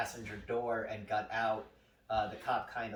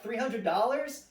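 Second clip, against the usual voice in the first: high, slow, rising disbelief; incredulous; 9 semitones higher, 4 dB louder than usual. Retold or imitated. Young driver to cop over a huge fine, incredulous. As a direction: question it in shock, pitch climbing to the end.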